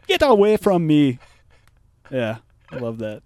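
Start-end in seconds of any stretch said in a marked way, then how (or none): 0.1-1.2 put-on loud, higher African accent yell. Telling off the mumbling kid, African accent yell. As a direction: bark it out in a mock African accent. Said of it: "You screaming at him in an African accent".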